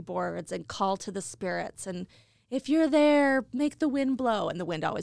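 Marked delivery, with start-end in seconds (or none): 2.5-4.5 spooky summoning voice. Retold or imitated. Calling to spirits with Ouija board.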